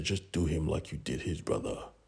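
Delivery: imitated disgusted voice. Retelling a boss ordering a killing: imitating a disgusted voice. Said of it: "With absolute disgust in her voice".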